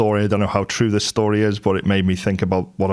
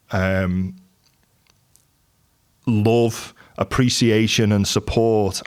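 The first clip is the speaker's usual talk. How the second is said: slow, halting, a touch emotional; real emotion, pausing to find the words; getting emotional; slower than usual. Real, not acted. Husband praising his supportive wife, slightly emotional. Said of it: "I'm getting a bit emotional now".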